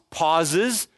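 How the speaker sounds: normal talking voice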